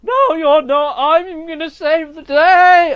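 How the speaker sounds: high, slow hero shout; big mock-heroic cry; heroic defiance. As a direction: shout it like a hammy hero arriving. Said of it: "And he comes out".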